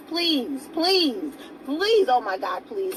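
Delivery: begging please with a crack of crying; plead, near tears. Real, not acted. Begging complainers to stop with tearful pleading.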